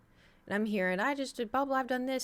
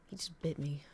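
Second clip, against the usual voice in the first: hushed, stunned whisper; whispering to viewers after the dog bites; 3 semitones lower, 9 dB quieter than usual. Real, not acted. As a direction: whisper it in shock. After the dog bit her.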